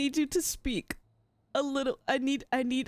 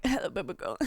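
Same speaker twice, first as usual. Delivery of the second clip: mock fuckboy voice; 5 semitones lower, faster than usual. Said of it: "exactly what it sounded like".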